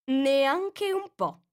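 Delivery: very slow, drawn-out put-on voice; curt caterpillar. A narrator's reading. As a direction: stretch each word out lazily.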